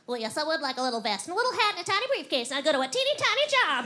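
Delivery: animals with jobs. Retold or imitated. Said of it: "all of them are like".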